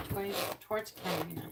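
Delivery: quick, slightly imperious Red Queen. Retold or imitated. Asking the cards, a hint of the Red Queen. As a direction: snap it out like a storybook queen. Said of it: "sound like the Red Queen".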